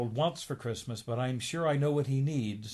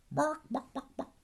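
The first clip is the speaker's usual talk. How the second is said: very high yappy barks; dog barking. Acted. Hypnotized Donald barking like a dog. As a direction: yap like a little dog.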